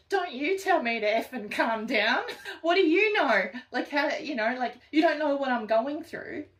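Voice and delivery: high, loud enraged rant; angry outburst. Retold or imitated. Upset person told to calm down, furious rant. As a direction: snap back in outrage. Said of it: "it's like".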